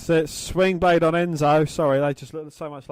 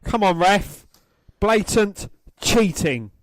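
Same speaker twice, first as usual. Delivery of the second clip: indignant protest; 5 semitones higher, 4 dB louder, slower than usual. Real, not acted. Fan protesting cheating to the ref.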